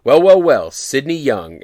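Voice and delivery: a touch of a sneering party gatekeeper; smug greeting. Retold or imitated. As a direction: gloat like you've caught him. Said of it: "random woman comes out of nowhere and she goes".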